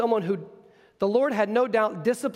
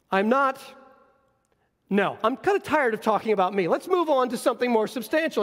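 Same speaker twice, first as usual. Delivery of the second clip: weary brush-off; 3 semitones higher than usual. Acted. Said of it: "his answers keep getting shorter".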